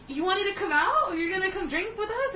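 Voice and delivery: high, hopeful questioning; pleasantly surprised. Retold or imitated. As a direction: re-enact a delighted surprise, pitch lifted. Acting out greeting her best friend.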